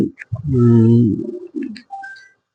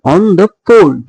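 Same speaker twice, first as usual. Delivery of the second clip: "on the" light, then stress "fold"; 4 semitones higher than usual. Shown as a demonstration. Teacher showing an anapaest, stress on "fold". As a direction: land the beat on "fold". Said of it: "the stress is again on the fold".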